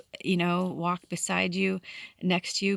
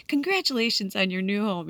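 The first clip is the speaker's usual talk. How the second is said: higher-pitched, mildly excited quote; retold congratulations; 4 semitones higher, 3 dB louder than usual. Retelling a man congratulating them on a new home, mildly excited. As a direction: imitate someone happily congratulating you.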